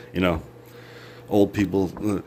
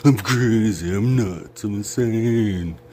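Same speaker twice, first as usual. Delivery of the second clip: tag; 2 semitones higher, 5 dB louder, slower than usual. Pretend. Acting out being crazy.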